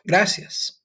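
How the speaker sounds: high bright thanks; customer thanking. Shown as a demonstration. Diner thanks the waiter with a high gracias. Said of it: "Imagine yourself in this restaurant ordering".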